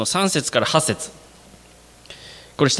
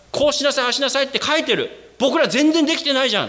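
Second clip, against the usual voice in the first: higher, lightly acted reading of commands; reading commands in dismay; 7 semitones higher, faster than usual. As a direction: act out the dismay of falling short. People reading the law, dismayed.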